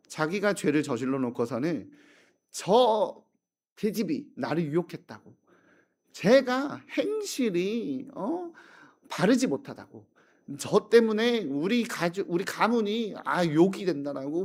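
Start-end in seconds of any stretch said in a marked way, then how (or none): 2.5-14.4 higher, whining false accusation; a hint of a lying nobleman shifting blame; nobleman blaming maid. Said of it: "모든 죄를 그 여종에게 뒤집어 씌우고". (양반이 여종에게 죄를 뒤집어씌우며 억울한 척)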